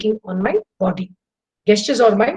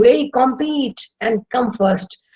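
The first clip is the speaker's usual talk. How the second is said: urging parent; 3 semitones higher, slower than usual. Retold or imitated. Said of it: "teachers and parents have told you".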